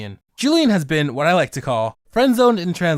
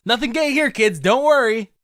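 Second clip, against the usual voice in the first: sarcastic reassurance; 7 semitones higher, 3 dB louder than usual. Acted. Sarcastic aside about the dub.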